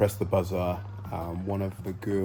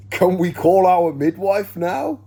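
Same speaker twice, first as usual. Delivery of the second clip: high, loud, slow pointed plea; exasperated; 11 semitones higher, 10 dB louder, slower than usual. Retold or imitated. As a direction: drag it out, fed up. Retold exasperated father.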